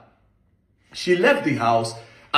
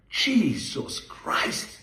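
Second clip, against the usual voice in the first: slow breathy whisper; whispered exasperation; 4 dB quieter, much slower than usual. Real, not acted. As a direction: whisper it, stunned and weary. Exasperated aside after the rant.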